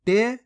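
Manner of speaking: टेसट split slowly, "te... sa... t"; गलत उच्चारण. Shown as a demonstration. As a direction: spell out टेसट syllable by syllable with long pauses. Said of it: "इस प्रकार से क्या हो जाएगा". (टेसट को अलग-अलग अक्षरों में, रुक-रुककर)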